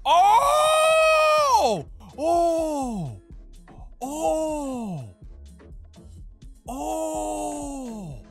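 high, loud joyful cry; ecstatic scream. Real, not acted. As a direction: shriek with excitement. Screaming at trailer reveal.

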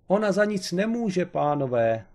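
a husband's frantic high cry to the detectives; desperate cry. A narrator's reading. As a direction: cry out in despair to save her. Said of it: "vykřikl zoufale".

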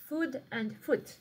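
"Food" with a long oo, "foot" with a short oo, each drawn out slowly; slow pronunciation demo. Shown as a demonstration. Teacher to pupils, contrasting long and short vowels, slowly. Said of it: "واحد طويل، واحد قصير".

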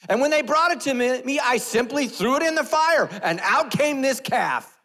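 high, very loud far-fetched excuse; hammed-up shouting. Aaron explaining the calf to Moses, hammed-up shouting.

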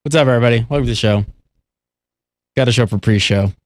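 low voice with tongue between teeth; lisp. Pretend. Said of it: "now I just wanna talk with that lisp".

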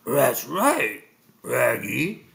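cartoon talking dog, growled R's; Scooby-Doo. A narrator's reading. Scooby agreeing with Shaggy about snacks, doggy voice. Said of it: "said Scooby-Doo".

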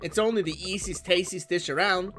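lightly voiced jolly instructor with a laugh; a hint of a showman gathering a crowd; mildly hammed-up character voice; showy game cook. Voices a game cook explaining hamburgers.

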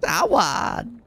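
high frantic pleading shouts; man down shout. Real, not acted. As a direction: yell desperately for a revive. Downed player begging teammates for a revive.

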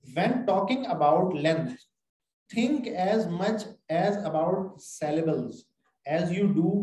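slow, careful reading from the book; slow textbook reading; reading aloud. Shown as a demonstration. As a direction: read each word out deliberately. Reading English text aloud.

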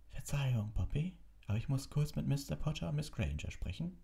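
high-toned but composed request; unruffled. A narrator's reading. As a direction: excuse yourself politely, quite calm. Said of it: "sagte Dumbledore gelassen". (gelassen und höflich)

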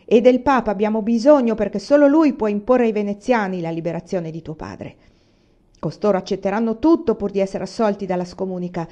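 furious mother lecturing; 1 angry tirade. Acted. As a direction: berate the crying daughter.

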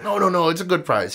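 high mock salesman patter; lightly imitated pushy hawker. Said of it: "I let a pushy salesman".

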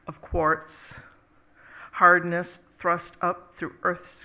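slow, measured poetry recital; poem reading. Acted. Poet reads Stone Animate to an audience, measured recital. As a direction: open each line firmly, then let it settle.

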